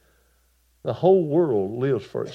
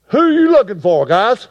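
loud, much higher challenge to the crowd; Jesus calling out; 10 semitones higher, 13 dB louder than usual. Acted. Jesus facing the crowd that came to arrest him, loud and high. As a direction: call out over the crowd. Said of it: "Jesus said".

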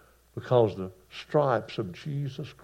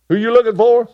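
loud, much higher call to the crowd; Jesus asking again; 11 semitones higher, 12 dB louder than usual. Acted. Jesus asking the soldiers a second time, loud and high. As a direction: shout the question at the soldiers. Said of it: "Jesus said".

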